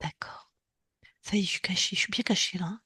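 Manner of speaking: hushed whisper, hiding; whispering while hiding. Pretend. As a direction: whisper so nobody hears. Hiding from soldiers in prairie.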